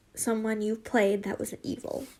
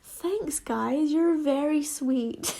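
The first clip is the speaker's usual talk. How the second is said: imitating a toady reply; mock-sweet thanks, drawn out at the end; toad-like act; 3 semitones higher, slower than usual. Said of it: "she acted like a toad".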